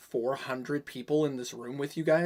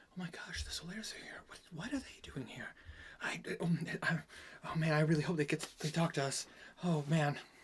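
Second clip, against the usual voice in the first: excited whispering, quieter; 2 semitones higher, 7 dB quieter than usual. Voicing guild members who spot the heroes: whispering guild members. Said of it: "whispering of".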